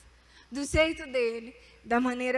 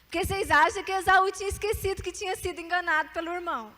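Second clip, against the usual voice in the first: preaching at full force; 3 semitones higher, 4 dB louder than usual. Real, not acted. Preaching climax over music.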